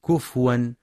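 كفوا as "kufwan", two syllables; كفوا with no vowel after the f; vowelless fa. Shown as a demonstration. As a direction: close the first syllable of كفوا on f, then "wan". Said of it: "فلا يقرأ بسكون الفاء".

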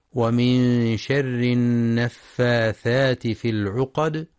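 slow chanted tajweed recitation; Quran recitation. Shown as a demonstration. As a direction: recite it slowly with measured tajweed. (تلاوة مجودة بطيئة)

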